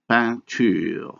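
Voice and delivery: PEINTURE in French, the EIN one nasal vowel; nasalized vowel. Shown as a demonstration. Lecturer reading out French examples of nasalization, nasalized vowel. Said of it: "a nasalized vowel".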